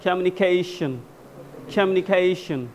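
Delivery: teacher stretching the vowel in कम्युनिकेशन; stretched syllable. Shown as a demonstration. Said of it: "तो उसको हम लोग थोड़ा सा खींचे". (कम्युनिकेशन का "खे" थोड़ा खींचकर)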